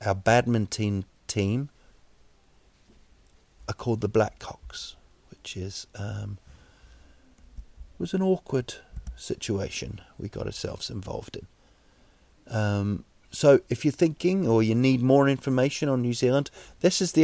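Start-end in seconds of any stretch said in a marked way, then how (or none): 3.7-12.5 unvoiced, trailing whisper; embarrassed whisper. Real, not acted. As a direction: let it slip out under breath. Awkward confession muttered aside.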